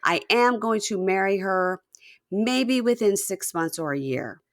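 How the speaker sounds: high, loud defiant announcement; firm declaration. Retold or imitated. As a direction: stand up to mom at last. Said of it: "And he goes".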